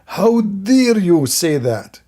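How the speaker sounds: slow, drawn-out mock indignation; hammed-up slow fury; mock outrage. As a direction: stretch out how dare you, mocking his anger. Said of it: "so angry from the guy".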